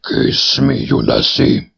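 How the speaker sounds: eerie voice of a loathsome head; pool head voice. A narrator's reading. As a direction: coax like an ugly head in a pool. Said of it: "third head from the pool".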